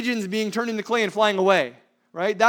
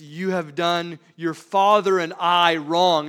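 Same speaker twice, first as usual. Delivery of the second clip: frustrated reproach; 7 dB louder, slower than usual. Acted. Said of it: "She says".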